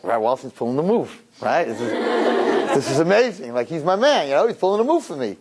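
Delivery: mildly gushing, voice lifting as it goes; a touch of giddy pride; excited retelling. Retold or imitated. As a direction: lightly act out a thrilled fiancée. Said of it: "she's all excited".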